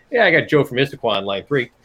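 lightly voiced radio call-in host; a hint of a sports radio announcer. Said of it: "which sounds like a sports radio guy".

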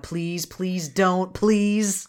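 drawn-out, hammed-up begging; mock pleading. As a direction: slowly beg it not to happen. Acted dread of Star Wars parodies.

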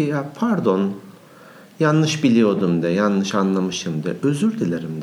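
slow, deliberate apology; model apology. Shown as a demonstration. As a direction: spell out the apology slowly, teaching how it's done. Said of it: "De ki".

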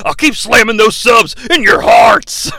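lightly done Hulk Hogan voice. Acted. Hulk Hogan closing line.

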